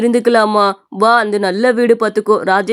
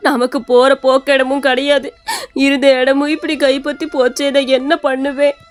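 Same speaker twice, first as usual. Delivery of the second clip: tearful lament. Acted. Mother-in-law weeps after losing home.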